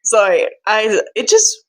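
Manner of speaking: fighting back tears while apologizing; tearful. Real, not acted. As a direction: voice catching, close to tears. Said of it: "it makes me really sad".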